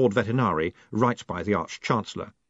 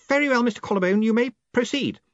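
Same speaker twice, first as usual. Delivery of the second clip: booming; 13 semitones higher, faster than usual. A narrator's reading. Ridcully booming.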